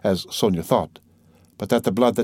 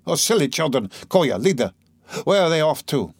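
alarmed; 5 semitones higher than usual. Acted. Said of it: "she cried suddenly in alarm".

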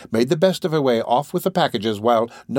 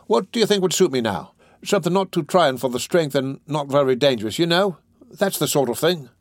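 higher-pitched, eager petty rogue; Noah Claypole; 5 semitones higher than usual. Acted. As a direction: pitch your voice up as a cheeky recruit. Voices Noah in dialogue.

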